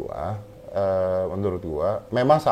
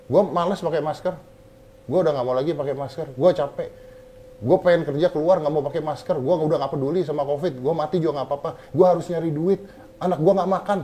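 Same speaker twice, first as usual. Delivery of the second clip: higher, pleading complaint of a broke father; exasperated poor worker; 5 semitones higher than usual. Retold or imitated. A poor man voiced to make the point, pleading higher. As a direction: whine that he must earn money.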